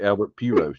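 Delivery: "Pujols" said as PYOO-rohs; deliberate mispronunciation. Real, not acted. Card opener humoring fans, "Pujols" mispronounced PYOO-rohs. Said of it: "not even worried about correcting myself".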